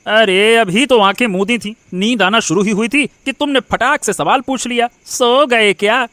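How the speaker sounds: irritated at being woken; grumble, dragging out the mocked question; annoyed grumble. Husband woken by wife's question, grumbling.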